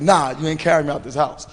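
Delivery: mock defiance through a laugh; laughing refusal. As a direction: laugh while refusing to be carried out. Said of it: "I'm like".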